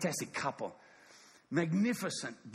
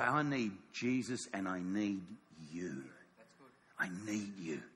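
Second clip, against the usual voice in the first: humble plea; 10 semitones lower, 6 dB quieter than usual. Acted.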